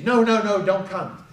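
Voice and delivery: mildly frantic imitation; panicked refusal. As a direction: cut in urgently to stop him. Son's panicked refusal, retold.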